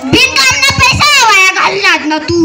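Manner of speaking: loud, wailing scold. Acted. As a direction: wail and shout at her for wasting money. Aunt scolds about wasted money.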